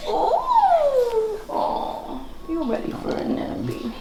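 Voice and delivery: high soft cooing. Real, not acted. Mom cooing to baby.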